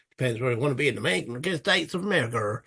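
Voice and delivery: quick, badly faked American accent; awful American accent. Player admitting his failings, awful American accent. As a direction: have a poor go at an American accent. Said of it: "my American accents are absolutely goddamn awful".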